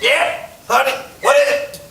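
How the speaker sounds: voice of a madman. Acted. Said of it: "Voice of a madman".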